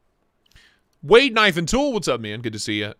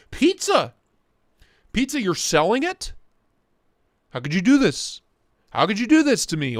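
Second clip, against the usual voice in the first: mock dismay; 6 semitones higher, 3 dB louder than usual.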